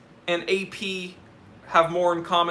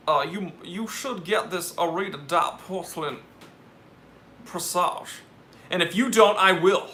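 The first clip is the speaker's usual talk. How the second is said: Southern gentleman. Pretend. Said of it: "a whole bit about a Louisiana gentleman".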